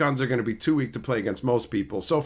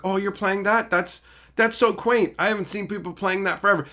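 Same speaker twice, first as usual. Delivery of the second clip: condescending; 5 semitones higher than usual. Retold or imitated. Imitating a smug player sizing up an opponent's deck, condescending. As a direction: imitate a patronizing opponent, pitched up. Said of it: "this condescending dude playing".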